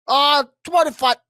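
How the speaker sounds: high, loud character protest; Beetle. Acted. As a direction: plead in a loud, high put-on voice. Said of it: "do it in the Beatle voice".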